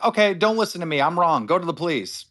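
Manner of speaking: high-pitched mock surrender; retold backing down. Quoting himself after the chat blew up, conceding. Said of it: "And I was like".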